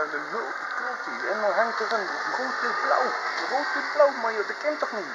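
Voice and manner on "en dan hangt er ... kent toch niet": worked-up rant. Real, not acted. Man rants about a flag on his street, building excitement. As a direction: work yourself up about the flag.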